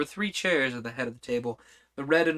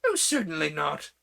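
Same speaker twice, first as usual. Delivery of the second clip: decided; 3 semitones higher than usual. Acted. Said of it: "very decidedly".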